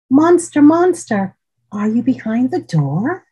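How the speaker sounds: high, loud call into the dark room. Acted. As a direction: call out for the monster. Child calling monster.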